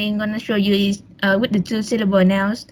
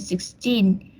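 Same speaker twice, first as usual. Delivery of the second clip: put-on six-TEEN, weight on the last syllable; stress on second syllable. Shown as a demonstration. Student presenter showing classmates number stress, sixteen stressed on the second syllable. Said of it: "numbers that end in teen have their stress on".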